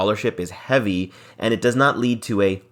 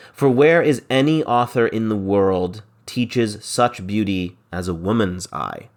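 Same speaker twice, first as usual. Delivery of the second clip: verse reading. Acted. Teacher reading Shakespeare's lines to the class, lightly dramatic. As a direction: read the verse line with a touch of drama.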